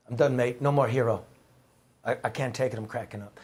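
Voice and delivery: imitated Irish accent, fading at the end. Reporter quoting his friend over coffee, light Irish accent trailing away. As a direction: give a light brogue, trailing off. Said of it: "It's a good Irish accent".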